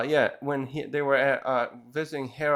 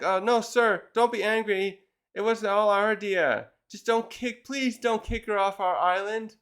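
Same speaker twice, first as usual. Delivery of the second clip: higher-pitched mock begging; pleading; 5 semitones higher than usual. Islanders begging the pirate captain not to kick her off, pleading. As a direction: imitate nervous underlings placating the boss.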